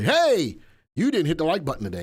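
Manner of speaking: mildly hammed-up "hey!" of someone confronting a viewer; mock scolding call-out. Someone turning up at a viewer's house, mock scolding.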